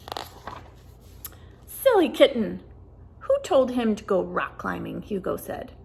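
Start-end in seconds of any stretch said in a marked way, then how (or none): 0.0-0.6 whisper. A narrator's reading. Whispered story line. 1.7-5.0 Hugo's voice. Acted. Hugo scolds the kitten.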